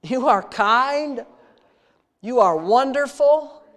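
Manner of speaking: earnest, intimate prayer voice, addressing God like a father; heartfelt spoken prayer. Real, not acted. Pastor leading his congregation in prayer, earnest and intimate. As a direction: pour out thanks to God in an earnest rhythm.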